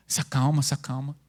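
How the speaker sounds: low, soft "se acalma"; a gentle murmured calm-down. Retold or imitated. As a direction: soothe him quietly. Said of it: "a Thalita tem que ficar".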